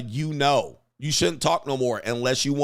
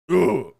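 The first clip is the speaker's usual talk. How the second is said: short, louder grunt; mock grunt; 4 semitones higher, 5 dB louder than usual. Imitating fifties men who never communicated, mock grunt. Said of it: "They just grunted".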